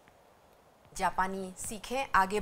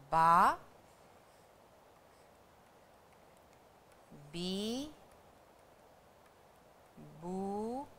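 बा, बी, बू, बे, बो with long pauses between each; slow syllable drill; 4 semitones lower, 8 dB quieter, much slower than usual. Shown as a demonstration. Teacher repeating syllables slowly for the class. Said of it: "एक बार फिर से".

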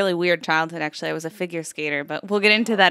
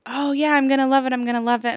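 acted eagerness; 5 semitones higher than usual. Acting out her eager first arrival.

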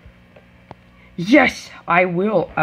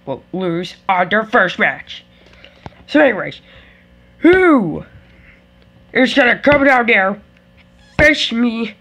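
wrestler promo voice; 2 semitones lower than usual. Pretend. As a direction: brag like a heel wrestler. Same champion voice continues.

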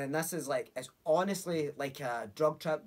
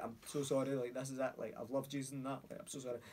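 crying goodbye; 6 dB quieter than usual. Retold or imitated. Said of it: "I'm properly greeting".

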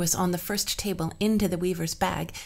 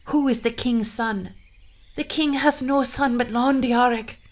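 tense interrogation; 6 semitones higher, 6 dB louder than usual. Acted. Bride and queen exchange.

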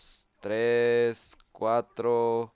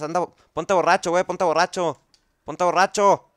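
louder, higher impatient shouts; yelling; 5 semitones higher, 7 dB louder than usual. Real, not acted. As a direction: yell at the zombie to hurry. Yelling at zombie. (gritando impaciente)

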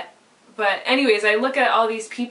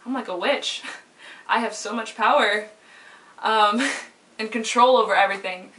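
laughing. Retold or imitated. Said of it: "And I was like".

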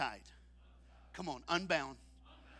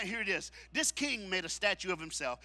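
normal talking voice

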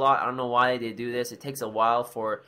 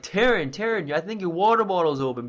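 higher-pitched imitation of an alarmed friend; friend's urgent alert; 5 semitones higher than usual. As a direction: mimic a friend calling out a warning. Voices friend alerting her.

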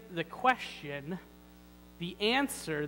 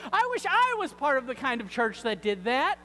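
higher, plaintive wish; mock wishing; 4 semitones higher, 5 dB louder than usual. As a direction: voice an envious churchgoer's wish. Acted wistful churchgoer complaint.

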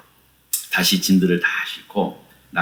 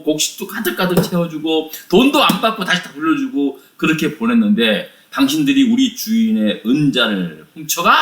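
higher-pitched, indignant mock reprimand; acted angry scolding; 4 semitones higher than usual. Steward accusing the brothers over the cup, acted anger. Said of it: "막 노발대발 막 화를 막 내는".

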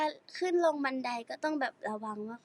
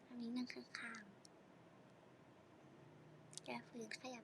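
whisper; 18 dB quieter than usual. Real, not acted. Whispered aside.

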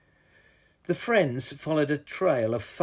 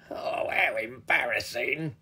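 slow, deflated troll voice; embarrassed troll; 3 dB quieter than usual. A narrator's reading. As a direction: drag it out in shame. Troll loses his powers.

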